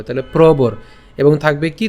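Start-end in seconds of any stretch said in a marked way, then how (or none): 0.3-0.7 প্রবর with র closing the syllable after ব; প্রবর, র attached to the bo sound; reph joined to ব. Shown as a demonstration. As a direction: say প্রবর as pro-bor. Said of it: "ব এর সাথে হবে".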